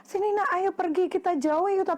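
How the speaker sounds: mild storybook urgency; urging mother. Acted. Mother urges child away.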